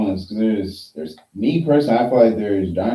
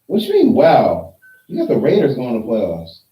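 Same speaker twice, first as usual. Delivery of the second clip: surprised; 4 dB louder than usual. Real, not acted. Shocked at a friend's playoff pick.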